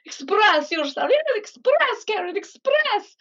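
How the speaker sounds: high, slow, gushing teacher voice; mock-urge the student to emote; emotional piano teacher. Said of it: "she was very emotional".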